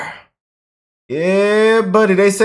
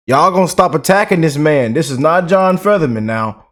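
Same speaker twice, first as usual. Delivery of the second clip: ordinary talk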